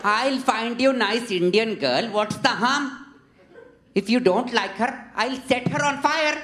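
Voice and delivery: lightly voiced Indian grandma, slow and incredulous; dismissive matriarch brushing it off, played for laughs; a hint of a blunt old lady with a light Indian accent; imitating Indian grandmother. Grandmother quoted at breakfast.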